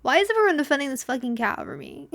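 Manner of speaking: exasperated, pitching up; mock outraged. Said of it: "I'm like".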